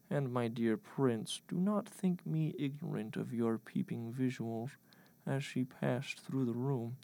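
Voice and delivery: choked disgust. Acted. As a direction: reprove him with understated disgust, drawing the words out. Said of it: "Lincoln choked in disgust and replied".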